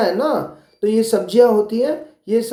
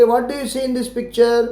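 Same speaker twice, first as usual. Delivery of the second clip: slow, careful question; much slower than usual. Shown as a demonstration. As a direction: ask it slowly for the class. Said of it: "अगर आपको पूछेंगे".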